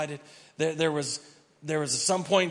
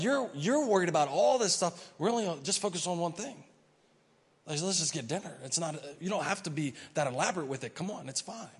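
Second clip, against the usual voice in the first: gentle Jesus; 4 semitones higher than usual. Acted. Jesus gently tells Martha to keep dinner simple. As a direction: talk her down kindly.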